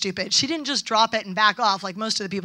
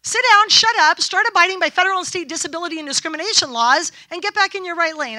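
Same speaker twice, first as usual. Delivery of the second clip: angry telling-off; 6 semitones higher, 3 dB louder than usual. Retold or imitated. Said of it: "I didn't quite say it like that".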